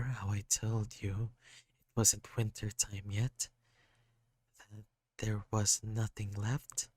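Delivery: put-on a hurt kid apologising, voice lifted; sad kid. Sad kid character speaking.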